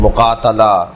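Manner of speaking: مقاتلہ sounded mu-qaa-ta-la; model word pattern. Shown as a demonstration. Teacher drilling words of one pattern, model pronunciation of مقاتلہ with "ta". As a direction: give مقاتلہ an open "ta", as a standalone example. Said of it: "اس وزن کے اور بہت سارے الفاظ".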